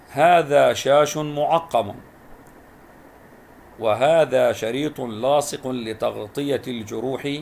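slow, careful reading aloud of the sentences; slow classroom read-aloud; slow model reading. Shown as a demonstration. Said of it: "أقرأ الجمل وألاحظ نطق الكلمة المكتوبة".

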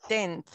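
tenth with its final th made stronger; tenth, leaning on the th; stressed th. Shown as a demonstration. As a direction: raise the th at the end of tenth. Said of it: "le aumento el sonido del T H".

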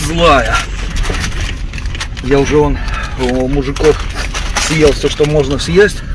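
loud, pained, mouth on fire; mouth burning from spicy food. Real, not acted. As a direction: talk through burning lips. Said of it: "не отпускает".

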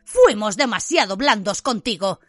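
put-on an angry uncle throwing the boy out; furious uncle. Uncle ordering Harry out of the house, furious.

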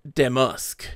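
damask stressed on the DAM; damask, front-stressed; stress on first syllable of damask. Shown as a demonstration. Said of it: "with the emphasis on the first syllable".

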